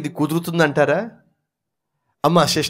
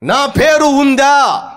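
mock demand; 7 semitones higher, much slower than usual. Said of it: "పేరు కోసం ఎంత ప్రాకులాడుతున్నారండి".

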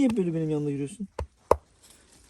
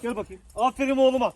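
talking to a dog; 9 semitones higher, 8 dB louder than usual. Real, not acted. Praising the dog.

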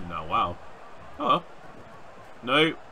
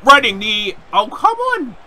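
loud, high shouted exasperation; frustrated shout; 12 semitones higher, 12 dB louder, slower than usual. Real, not acted. Gamer whose running knee fails, high frustrated shout. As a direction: call the move, then wail in protest.

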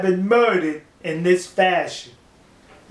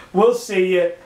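laughing. Real, not acted. Signing off with a laugh.

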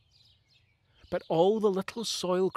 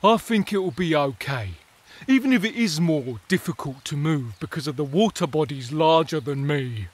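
calm sturdy tardigrade; 6 dB louder than usual. Acted. Tardigrade reassuring the others, calm and sturdy. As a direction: stay steady and unbothered. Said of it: "said a tardigrade".

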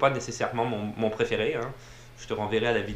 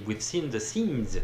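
French-accented English; slower than usual. Shown as a demonstration. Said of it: "mon accent en anglais de poubelle".

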